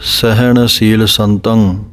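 unhurried chant-like reading; slow measured recital. Shown as a demonstration. Teacher demonstrating the line slowly for students. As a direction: say ਸਹਿਣ ਸੀਲ ਸੰਤੰ slowly, each word set apart. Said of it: "ਸੋ ਇਸ ਤਰ੍ਹਾਂ ਦੇ ਨਾਲ".

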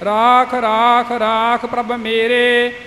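measured, sustained Gurbani recitation; chant-like, evenly intoned verse reading; scripture recitation. Acted. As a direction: recite sacred verse with held line endings. Recites scripture, then explains it.

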